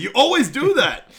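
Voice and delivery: high, loud words breaking into laughter; can't hold back the laugh; laughing through it. Real, not acted. Laughing while quoting Doctor Evil.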